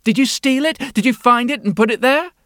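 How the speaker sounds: cartoon princess. Princess voiced, accusing.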